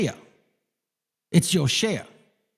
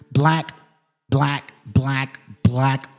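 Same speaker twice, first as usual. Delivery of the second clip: BLACK said over and over, each one set apart; emphatic repetition; 4 semitones lower, much slower than usual. Real, not acted. Reader drives home who the conquistadors were, emphatic repeated BLACK. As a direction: hammer BLACK slowly in a low, level tone. Drawn-out repeats while reading history aloud.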